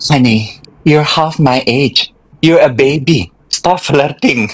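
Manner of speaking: put-on English spoken with a Sundanese accent. Retelling own reply to someone flirting: Sundanese-accented English. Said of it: "mendadak Sunlis, Sunda English".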